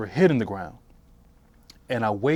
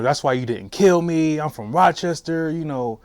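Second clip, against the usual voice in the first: retold angry yelling; 4 semitones higher, 3 dB louder than usual. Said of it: "I started screaming, started cussing at 'em".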